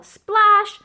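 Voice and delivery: high, loud exclaimed splash; splash effect. A narrator's reading. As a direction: make the word burst like water. Puddle kicked in the story.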